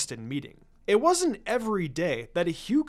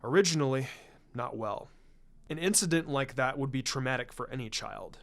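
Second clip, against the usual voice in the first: a hint of a grave clan patriarch, measured and formal; lightly voiced Hiashi; 4 semitones lower than usual. Hyuga head confiding in Shikaku, lightly voiced and grave. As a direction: speak as a proud head of clan admitting defeat.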